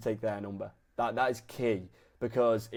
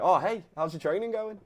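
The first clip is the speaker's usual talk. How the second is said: laid back greeting; 7 semitones higher than usual. Shown as a demonstration. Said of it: "It needs to be laid back".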